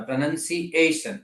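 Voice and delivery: "પ્રોનન્સિએશન" slowed, leaning on the A of "-ation"; pro-nun-si-A-tion, weight on the A; stress on A. Shown as a demonstration. Teacher showing where stress falls, "પ્રોનન્સિએશન" stressed on the A. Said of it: "એ ઉપર ભાર મૂકવાનો".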